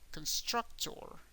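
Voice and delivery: "constructor" as kun-STRUC-ter, slow and high; English "constructor", slow, rising at the end; English pronunciation. Shown as a demonstration. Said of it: "the way that you would say constructor".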